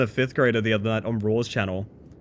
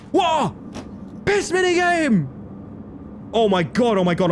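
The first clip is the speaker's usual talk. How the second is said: excited shout; 10 semitones higher than usual. Real, not acted. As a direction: shout out a delighted discovery. Excited discovery in game.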